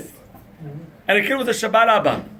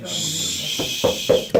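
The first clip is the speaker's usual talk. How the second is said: whispered shush; hush; 2 semitones lower than usual. Retold or imitated. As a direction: hush the kid quickly. Father hushes child.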